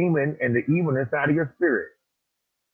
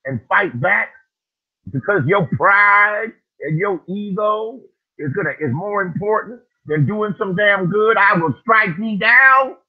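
loud, high booming divine voice; voice of God; 3 semitones higher, 4 dB louder than usual. Acted. Quoting God's warning to him, booming. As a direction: thunder it out like God. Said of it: "And said".

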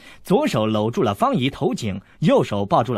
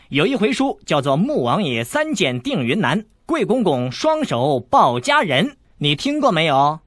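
mock storyteller; 4 semitones higher, 3 dB louder than usual. Storyteller title, teasing.

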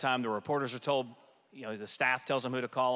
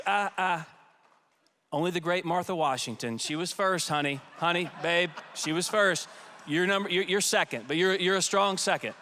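teasing husband; 4 semitones higher than usual. Retold or imitated. Aide retelling the president teasing the First Lady, light mock impression.

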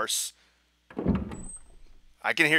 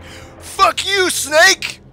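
high, loud mock battle cry; hammed-up defiant shout; imitating a shotgun-wielding badass; 6 dB louder, much slower than usual. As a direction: yell it like an action hero charging in. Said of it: "comes in here one-handed with a shotgun and is like".

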